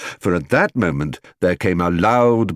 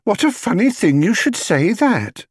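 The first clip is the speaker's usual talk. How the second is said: higher, knowing housekeeper; hint at a secret; housekeeper voiced; 13 semitones higher than usual. A narrator's reading. Housekeeper to Mr Brown, knowing and higher. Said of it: "exclaimed Missus Bird".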